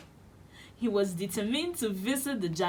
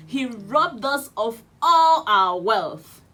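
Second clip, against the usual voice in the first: indignant Jack; 9 dB louder than usual. Acted. Jack accuses the dead giant.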